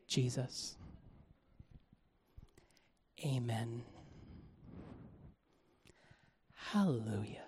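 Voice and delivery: very soft, low and lifeless; flat mumble. Retold or imitated. Churchgoers without energy, soft dull mumble. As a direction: say it like you don't mean it. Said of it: "They don't say".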